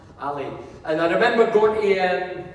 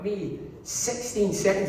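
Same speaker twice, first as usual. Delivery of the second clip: slow, softer, mock-smug boast; mock arrogant; 2 semitones higher, 5 dB quieter, slower than usual. Boasting to the Sunderland fan on TV, slow mock arrogance. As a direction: gloat slowly, half-joking swagger. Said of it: "looked sort of aggressively and arrogantly".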